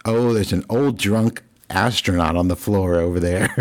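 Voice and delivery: imitating the waiter's funny voice with a laugh; a lightly put-on comic voice, chuckling. Waiter telling diners about the fallen man, mock funny voice. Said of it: "in a very funny voice".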